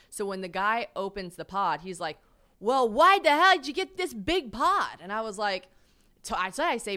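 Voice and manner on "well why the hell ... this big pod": higher, louder, slow disbelieving driver; a gruff guy baffled at the huge pod; incredulous Bert. Retold or imitated. Bert questions the big pod.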